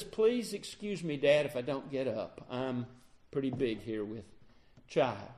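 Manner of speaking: low, soft, demure plea; meek excuse. Retold or imitated. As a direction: play innocent and small. Pregnant Rachel hides the idols.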